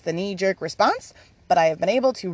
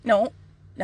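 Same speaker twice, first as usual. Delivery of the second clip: patient spirit parent; 8 semitones higher than usual. Retold or imitated. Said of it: "Spirit looks at me like their child".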